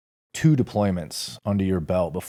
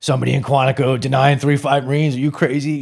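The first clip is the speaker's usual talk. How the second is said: retold angry captain; 6 semitones higher, 5 dB louder than usual. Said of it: "He got, like, really mad about it".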